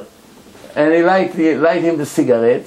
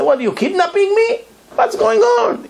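high, panicky questions; alarmed passenger; 13 semitones higher than usual. Acted. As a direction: sound like you think you're being kidnapped. Rich passenger fears kidnapping.

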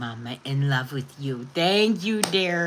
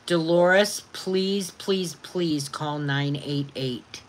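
slow pleading; slower than usual. Real, not acted. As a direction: gently beg her to make the call. Begging viewer to call hotline.

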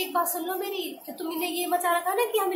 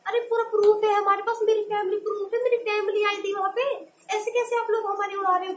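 indignant insistence; 4 semitones higher, 4 dB louder than usual. Real, not acted. Insisting she has proof.

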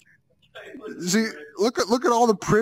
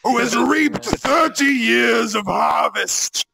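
declaiming shout. Acted. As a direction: proclaim it like a stage hero. Dramatic defiant speech.

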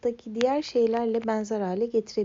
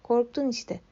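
mock teasing; 3 semitones higher than usual. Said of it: "diye dalga geçti Nessie".

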